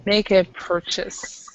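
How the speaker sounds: slow, clear model of Make a purchase; slow model phrase. Shown as a demonstration. Teacher models the phrase for students, slowly.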